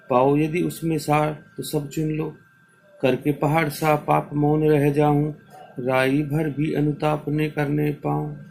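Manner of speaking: sustained, chant-like verse reading; measured classroom verse recital; poem recitation. Acted. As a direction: recite each line on a steady, even tone.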